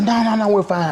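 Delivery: high dismissive woman voice; woman's voice. Retold or imitated. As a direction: brush it off in a high voice. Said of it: "She's like".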